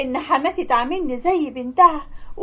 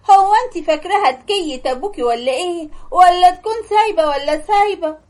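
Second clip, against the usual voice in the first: angry mother-in-law; 3 semitones higher than usual. Acted. Mother-in-law berates her.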